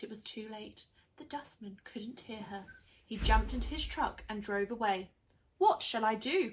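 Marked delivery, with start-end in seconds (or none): 5.6-6.5 despairing cry. Acted. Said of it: "cried Winnie".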